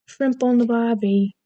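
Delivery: hammed-up stock Aussie accent; stereotypical Australian accent. Shown as a demonstration. Vlogger risking getting canceled, stereotypical Australian accent. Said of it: "It's very stereotypical".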